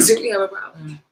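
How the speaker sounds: mock confrontation through a laugh; laughing challenge. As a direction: laugh while squaring up. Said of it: "with an attitude".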